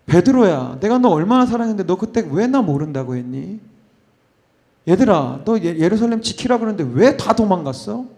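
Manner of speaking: 서운함 섞어 나무라듯; 사랑했는데 왜 그랬냐고 다그치듯; 핀잔주는 말투. Pretend. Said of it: "핀잔하시고 혼내시고". (서운하게 나무라는 말투)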